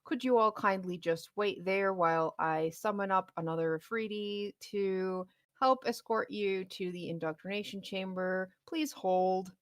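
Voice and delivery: a touch of a flustered villain on the intercom; booming villain voice. Acted. Dungeon master voices the villain over the intercom, mildly booming and flustered. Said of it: "a voice booming through the dungeon".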